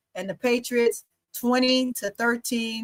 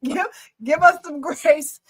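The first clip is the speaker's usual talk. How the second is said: slower, higher, drawn-out plea; like Angel; 5 semitones higher than usual. Retold or imitated. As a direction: stretch each word like an earnest plea. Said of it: "talk like Angel".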